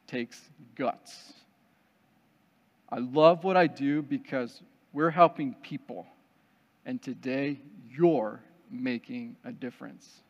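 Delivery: measured pep talk with weighty pauses; earnest and hushed, let each phrase land; solemn, sincere instructor. Retold or imitated. Rappel instructor encourages a fearful participant, solemn and sincere. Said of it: "he stares deep into my soul".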